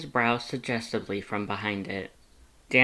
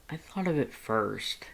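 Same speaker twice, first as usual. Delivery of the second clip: pouting; 3 semitones higher, 4 dB quieter than usual. A narrator's reading. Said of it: "Dance pouted".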